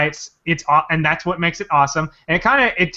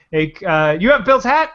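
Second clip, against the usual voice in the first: mock stranger voice; 3 semitones higher, 3 dB louder than usual. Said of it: "they're always like".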